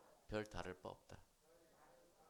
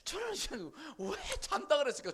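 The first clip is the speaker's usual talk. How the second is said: higher, louder, stress on 잔다; emphatic question; 11 semitones higher, 8 dB louder than usual. Shown as a demonstration. Preacher asking the congregation, loud emphatic question. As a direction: ask 왜 잔다 그랬을까 with 잔다 ringing out high and loud.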